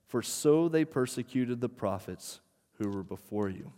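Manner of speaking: scripture reading. Acted. Pastor reading Matthew five to the church, solemn reading. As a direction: proclaim each line like a formal reading. Reads the Beatitudes aloud.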